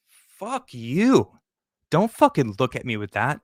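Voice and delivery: reliving the fury, bite it out; pissed-off comeback at a disapproving glare; angry retort. Retold or imitated. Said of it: "I was so pissed".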